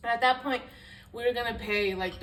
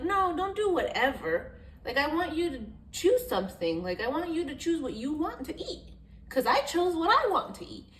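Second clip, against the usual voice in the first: exasperated pleading; 8 semitones higher, 5 dB louder than usual. Retold or imitated. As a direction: beg him to just pick something. Inner plea to boyfriend.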